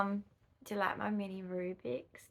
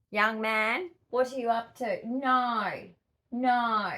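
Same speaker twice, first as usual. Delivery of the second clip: raised voice, scolding a naughty pet; mock stern scolding; 3 semitones higher, 5 dB louder, slower than usual. Real, not acted. Owner telling off the kitten, mock stern. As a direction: stop the kitten, mildly stern.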